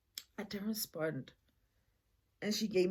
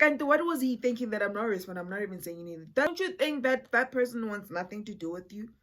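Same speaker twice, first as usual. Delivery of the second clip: exasperated rant; 3 semitones higher, 6 dB louder, faster than usual. Retold or imitated. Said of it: "In my mind, I'm like".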